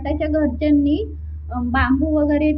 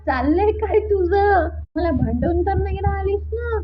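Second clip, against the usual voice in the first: suspicious aunt; 4 semitones higher than usual. Retold or imitated. Aunt suspects Namitai's sudden kindness, mildly suspicious. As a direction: question her like you smell a trick. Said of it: "पूर्ण doubt आलेला".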